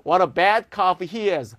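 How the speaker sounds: slow, scornful, leaning on bad; disgusted exclamation. Shown as a demonstration. Teacher demonstrating contempt in an example, slow and scornful. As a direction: sneer at how bad he is. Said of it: "기쁜 게 아니네요".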